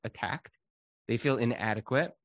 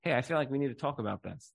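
calm, softer opening to a hard talk; 5 dB quieter, faster than usual. Shown as a demonstration. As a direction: gently invite the talk. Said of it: "in a very calm way".

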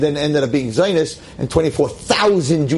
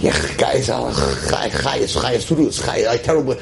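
mock teen sigh; 4 semitones lower than usual. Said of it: "I'm like".

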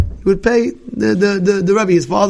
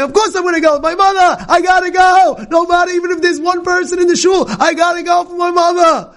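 rising preacher's shout, full of yearning; impassioned cry; 11 semitones higher than usual. Retold or imitated. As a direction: cry it out with a trembling heart for your mother. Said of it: "And he says".

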